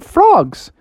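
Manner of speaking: high, excited mock shout. Froggy answers the riddle, high eager shout. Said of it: "and he shouted out".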